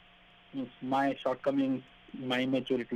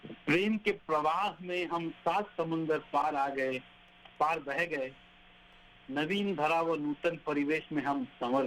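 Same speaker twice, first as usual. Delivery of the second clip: poem recitation. Acted. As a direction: read each line like a verse.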